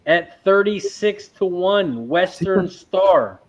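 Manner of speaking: slow, drawn-out play-by-play; race call. Acted. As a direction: call the field like a track announcer.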